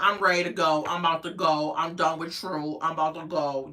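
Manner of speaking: mouth-closed talk. Retold or imitated. Host mimicking the girlfriend talking with her mouth closed. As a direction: speak through barely open lips like her. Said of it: "that's how she talk".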